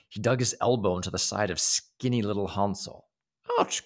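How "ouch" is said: cry of pain. Acted. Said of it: "cried the boy".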